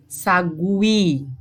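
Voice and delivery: SAGUI with both the G and the U heard; U sounded in SAGUI. Shown as a demonstration. Teacher showing both letters are heard, U sounded in SAGUI. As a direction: say "Sagui" as sa-GWI, the U audible after the G. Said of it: "você escuta o G e você escuta o U".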